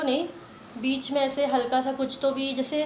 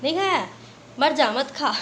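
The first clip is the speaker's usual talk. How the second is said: mock scolding mom; 2 semitones higher, 3 dB louder than usual. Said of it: "वो तो बोलती".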